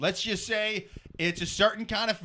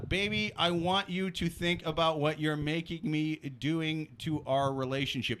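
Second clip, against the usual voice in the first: dumb guy voice; 3 semitones lower, 4 dB quieter than usual. Shown as a demonstration. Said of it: "I'm reading it in, in the dumb guy voice".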